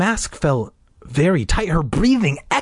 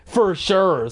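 higher, mocking "for sure"; sarcastic; 4 semitones higher than usual. Shown as a demonstration. Reader asking Kelly about the phrase, sarcastic. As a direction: say it with exaggerated irony.

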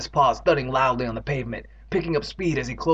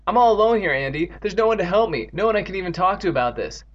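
high, plaintive complaint; self-pitying despair; 5 semitones higher than usual. Acted. Evan tells Andy he's alone, despairing. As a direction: lament being all alone.

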